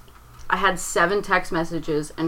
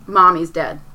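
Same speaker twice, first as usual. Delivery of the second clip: louder, blurting it out; a mild mock scream of the news; retold scream; 6 dB louder than usual. Telling her father the news, a louder retold scream. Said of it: "I just go in and I scream".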